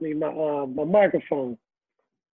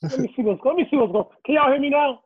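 muffled, cupped mic sound; 5 semitones higher than usual. Real, not acted. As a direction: talk through a bad mic, muffled. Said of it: "sound like you talking into a cup".

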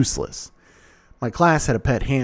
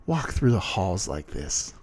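spat command; 4 semitones lower than usual. A narrator's reading. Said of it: "Damien spat".

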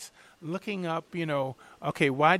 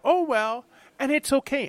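put-on higher and louder shrug of a Julia Child voice; imitating Julia Child; 10 semitones higher, 6 dB louder than usual. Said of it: "She would taste and go".

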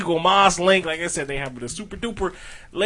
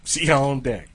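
laughing. Real, not acted. Echoing the joke, drawn out.

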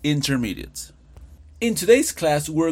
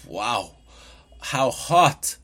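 emphatic exclamation; much slower than usual. Shown as a demonstration. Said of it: "Si fuera al revés".

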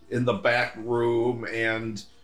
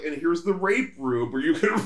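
higher, stiff robotic tech-CEO voice; chirpy, mechanical host pitching fun; Zuckerberg robot voice; 6 semitones higher than usual. Retold or imitated. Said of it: "Just talk like a robot".

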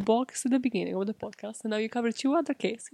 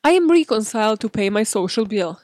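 reading a quote; 6 dB louder than usual. Retold or imitated.

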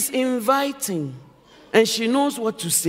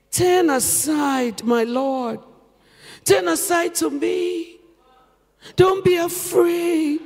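inviting; 4 semitones higher, slower than usual. Acted. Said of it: "by being inviting".

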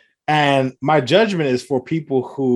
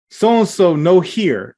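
coworker's clumsy pidgin, higher and louder; mock broken English; 5 semitones higher, 4 dB louder, much slower than usual. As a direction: bark it out like he thinks it helps. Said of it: "Like, that's how he said it".

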